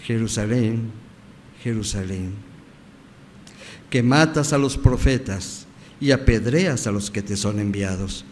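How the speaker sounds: tender, sorrowful lament; amor y tristeza. Acted. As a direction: lament gently, with measured restraint. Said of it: "llenas de amor y de tristeza". (lamento tierno y triste)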